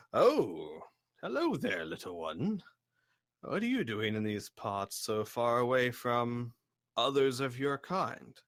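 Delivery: lightly voiced giant, swooping kindly greeting; a hint of a gentle giant; courteous giant. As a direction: greet a little one as a polite, curious giant. Game master plays the giant.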